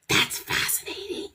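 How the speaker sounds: breathy, soft sarcastic aside; dry sarcasm. Retold or imitated. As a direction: say it under your breath, unimpressed. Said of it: "And I'm like".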